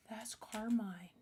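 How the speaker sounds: slow breathless whisper. Acted. Eva recognising Carmine in her dream, slow whisper. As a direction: breathe the name in shock. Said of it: "whispered realisation".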